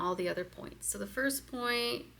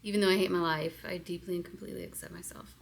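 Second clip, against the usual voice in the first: quick setup phrase; faster than usual. Shown as a demonstration. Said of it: "And I'm doing this".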